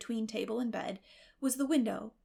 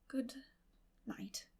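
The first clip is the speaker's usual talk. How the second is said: awkward but kind; 4 semitones higher, 10 dB quieter than usual. Acted. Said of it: "a little awkwardly, but not unkindly".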